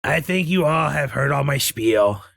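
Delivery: ordinary talk, nothing marked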